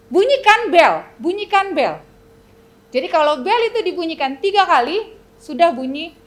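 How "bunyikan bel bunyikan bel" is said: loud, higher royal order; king's command. Acted. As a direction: bark the order to ring the bell. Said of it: "raja itu harus berkata". (perintah raja yang lantang)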